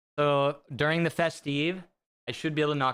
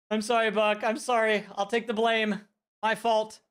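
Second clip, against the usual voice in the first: laughing apology; 7 semitones higher, 3 dB louder than usual. Real, not acted. Laughing mock apology to Buck.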